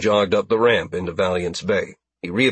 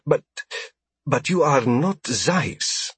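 surprised alien; 5 semitones higher, slower than usual. A narrator's reading.

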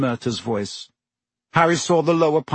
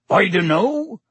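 higher, lightly amused character voice; chuckling; 7 semitones higher, 3 dB louder than usual. A narrator's reading. Hagrid disputes the professor on troublemakers, chuckling. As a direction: disagree with a touch of amusement. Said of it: "chuckled Hagrid".

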